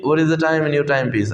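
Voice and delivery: spoken slowly, each word clear; slow, careful demo of the question; slow model question. Shown as a demonstration. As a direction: spell it out slowly for learners. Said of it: "आपको पूछना क्या है".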